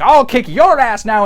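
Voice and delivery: a cocky brawler's boast; mock tough threat.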